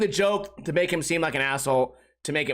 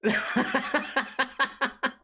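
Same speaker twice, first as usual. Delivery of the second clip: soft high laugh; a real amused laugh; 5 semitones higher, 4 dB quieter than usual. Real, not acted. Laughing at own story.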